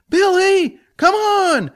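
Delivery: high loud exasperated plea; exasperated mentor. Acted. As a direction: hurry him along. Jack urges.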